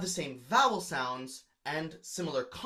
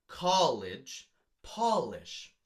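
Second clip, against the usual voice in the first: college and polish set side by side; rhyme demo; much slower than usual. Shown as a demonstration. Teacher sounding out an imperfect rhyme again. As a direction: weigh the matching "ah" in both. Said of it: "That's an imperfect rhyme".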